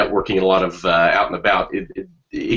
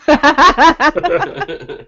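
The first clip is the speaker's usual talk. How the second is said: big laugh; 7 dB louder than usual. Real, not acted. Loud burst of laughter.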